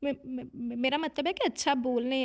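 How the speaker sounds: flustered stammer. Acted. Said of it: "सोमल बुरी तरह गड़बड़ा गई थी".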